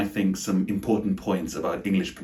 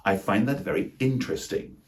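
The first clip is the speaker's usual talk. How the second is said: INTERESTING as IN-tres-ting, higher pitched; three syllables; 5 semitones higher than usual. Shown as a demonstration. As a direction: punch IN and drop a syllable from interesting. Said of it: "pronounce them rather with three syllables".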